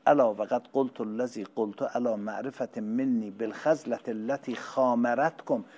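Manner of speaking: loud, slowed Arabic recitation; sermon recital. Acted. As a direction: intone the old words solemnly. (قرائت عربی بلند و باطمأنینه)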